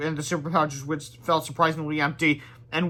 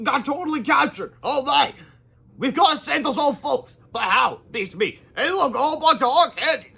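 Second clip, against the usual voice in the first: put-on high, lively kid voices; kid heroes; 9 semitones higher, 4 dB louder than usual. Boys discovering captured grandparents, high excited kid voices. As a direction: play the eager boys finding captives.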